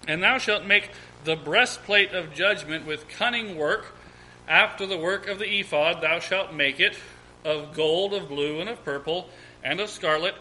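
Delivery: measured, projected Bible reading; formal scripture read aloud. Real, not acted. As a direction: read the verse out to a congregation in deliberate phrases. Reads scripture aloud to congregation.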